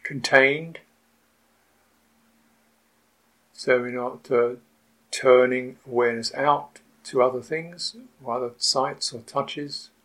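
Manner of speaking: unhurried meditation guidance with long pauses; guided meditation. Real, not acted. Teacher settling retreatants into awareness of the body, guided meditation. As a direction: guide the sitters patiently, leaving long silences between phrases.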